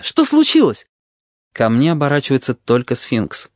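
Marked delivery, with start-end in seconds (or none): 0.0-0.9 calling out. A narrator's reading. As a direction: call out across the room. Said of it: "кричу я".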